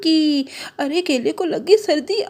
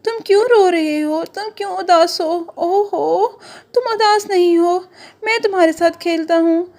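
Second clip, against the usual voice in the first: higher, soothing orange voice; orange consoling onion; 5 semitones higher than usual. Acted. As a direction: coax the crying friend gently. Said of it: "उसने कहा".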